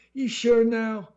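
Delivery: high, loud pushy salesman; one last push. A narrator's reading. Salesman making a last high push. Salesman pressing once more.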